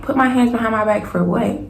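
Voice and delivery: retold indignant question, rising at the end; indignant disbelief. Retold protest to police.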